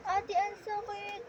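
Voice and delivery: imitating crying sister. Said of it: "umiiyak siya".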